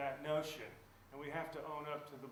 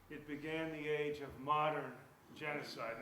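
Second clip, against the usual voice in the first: "modern" hit louder, then a short pause; stress on modern; 4 dB louder than usual. Real, not acted. Lecturer marking a new age of genocide, stress on "modern". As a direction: underline "modern" with weight and a beat after. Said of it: "I underline the word modern".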